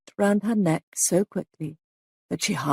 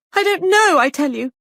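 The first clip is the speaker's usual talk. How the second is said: much higher, loud desperate cry; 10 semitones higher, 7 dB louder than usual. A narrator's reading. Molly crying out at the sergeant, high and loud. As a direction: break under the questioning. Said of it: "cried Molly".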